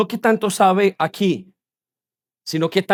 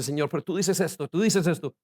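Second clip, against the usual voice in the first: quiet acted prayer; 2 semitones lower, 8 dB quieter than usual. Preacher voicing a believer praying to God, hushed. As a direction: plead softly, as if privately to God.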